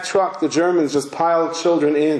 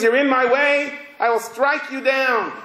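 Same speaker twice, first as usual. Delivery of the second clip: higher-pitched, mock warrior's threat; lightly acted aggression, pitched up; acted defiance; 6 semitones higher than usual. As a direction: declare it as an unstoppable swordsman would. Voices an aggressive sword.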